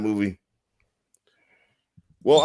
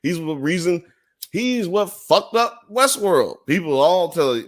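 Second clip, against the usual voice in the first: heated rant; 9 semitones higher, 3 dB louder than usual. Real, not acted. Ranting about Aaron Paul.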